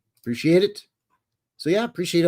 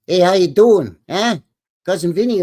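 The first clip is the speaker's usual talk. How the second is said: calling out; 6 semitones higher, 8 dB louder than usual. Real, not acted. Loud shout-out greeting a viewer.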